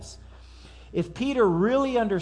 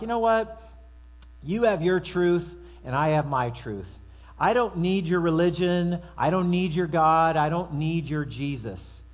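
defiant skeptic. Retold or imitated. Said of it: "they'll say something like".

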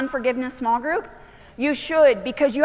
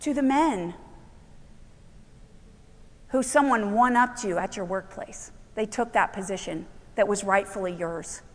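subdued preaching; 3 semitones lower than usual. Acted. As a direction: bring it down low for a sober point.

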